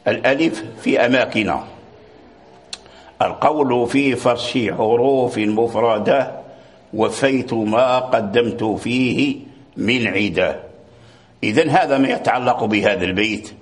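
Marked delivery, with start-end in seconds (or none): 3.2-10.6 slow, measured reading of a poem line; verse recitation. Acted. Teacher reciting the poem's verse to his students, slow and measured. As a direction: draw each word out like reciting verse.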